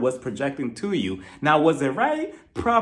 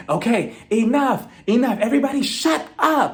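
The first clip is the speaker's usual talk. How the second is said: higher, louder, slowed shout to silence the room; mock scream; 7 semitones higher, 3 dB louder than usual. Andy yelling at the fighting cast, mock high shout. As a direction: yell like a host losing patience. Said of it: "he starts screaming".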